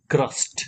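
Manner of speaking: "ક્રસ્ટ" run together as one syllable; blended word. Shown as a demonstration. Teacher shows learners the joined word, "ક્રસ્ટ" blended. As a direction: join short "ક" straight onto "રસ્ટ". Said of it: "આગળ ટૂંકો ક જોડવાનો છે".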